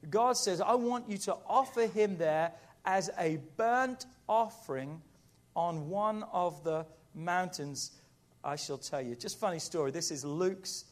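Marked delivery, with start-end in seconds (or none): 0.6-9.2 emphatic, raised command that slows and settles; very specific God. Acted. God tells Abraham exactly where to offer him, pointedly specific. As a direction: spell out the order piece by piece. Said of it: "God is very specific".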